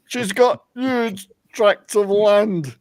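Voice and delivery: slow, suggestive drawn-out line; leering quote. Retold or imitated. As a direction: relish each word lewdly. Quoting the Swamp Castle lord.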